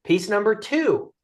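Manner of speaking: usual speaking voice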